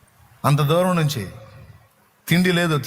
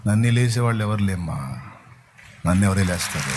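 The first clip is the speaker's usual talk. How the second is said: calm voice of Jesus; 6 semitones lower than usual. Retold or imitated. Jesus answers the mother calmly.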